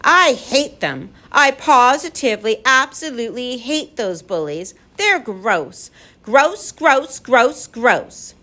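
put-on high, emphatic little-girl fury; through clenched teeth. A narrator's reading. Lindy hating the bullies, through clenched teeth. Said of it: "Lindy said through clenched teeth".

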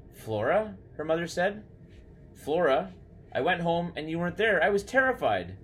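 high-pitched, anxious relief; frightened mother. Acted. Mother to her found daughter after being terrified, anxious and high.

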